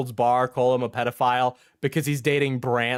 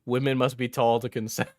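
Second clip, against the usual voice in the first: put-on mean girl voice. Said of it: "you're getting your mean girl voice on there".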